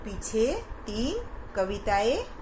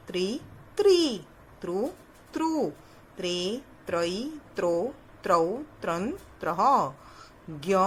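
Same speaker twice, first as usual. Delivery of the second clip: syllable drill. Shown as a demonstration. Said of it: "teacher recites syllable chart".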